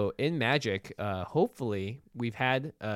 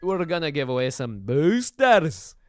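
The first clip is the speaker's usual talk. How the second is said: loud announcement; 5 semitones higher, 8 dB louder, slower than usual. Acted. Second giveaway announcement, drawn out.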